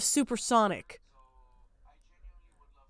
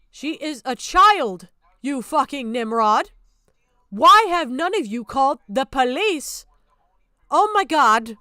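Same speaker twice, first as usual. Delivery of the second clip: furious; 6 dB louder than usual. Real, not acted. Streamer scolding the commentators who shrugged off the grooming, furious shout. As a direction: yell it, stunned they did nothing.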